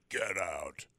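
spooky breathy whisper. Retold or imitated. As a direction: hush it like a ghost. Host echoes the ghost's words.

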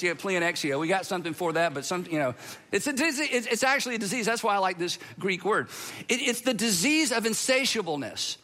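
normal talking voice

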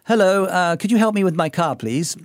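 lightly polite, cultivated Australian accent. Shown as a demonstration. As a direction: demonstrate refined Australian speech to a mechanic. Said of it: "I'm not gonna be".

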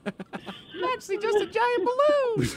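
high, slow balloon voice; squeaky laughing helium talk. Acted. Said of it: "you ever suck in helium?".

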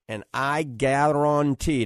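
a touch of New Orleans accent, slowed and leaned on. Real, not acted. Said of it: "that's my New Orleans accent coming out".

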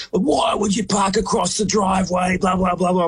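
hammed-up furious stranger; mock angry neighbour. Retelling a woman yelling at him over the driveway, mock yell. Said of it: "just goes nuts".

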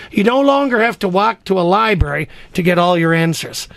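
upbeat announcer pitch for callers; radio contest promo. Acted. Host reads radio contest promo.

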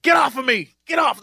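mock fending off. Host pretending to beat off admirers, mock fending off. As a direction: shout off imaginary admirers. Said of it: "I'd have to beat women off".

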